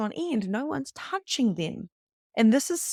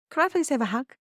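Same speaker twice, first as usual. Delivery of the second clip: put-on higher-pitched voice for asking a child; sweet polite request; 6 semitones higher, faster than usual. Asking son's best mate for a hug, sweetly polite. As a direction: ask a child lightly and sweetly.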